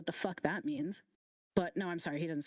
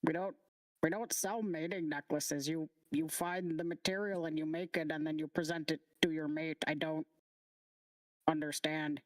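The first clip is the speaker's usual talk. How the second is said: lightly voiced, slightly lower puzzled character; a touch lower, explaining with puzzlement; puzzled non-player figure; 5 semitones lower than usual. Game master's figure explains mating necklaces to customer, mildly puzzled.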